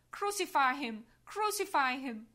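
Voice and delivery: loud chanted demand; crying out. Acted. Angels, saints and hell crying out together, loud shout. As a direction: shout it as one voice. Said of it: "everyone in one voice cries out".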